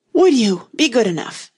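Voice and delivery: high, loud, winded plea; panting. A narrator's reading. Alice begging the King for a rest, panting. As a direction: push the words out between breaths. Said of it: "Alice panted out".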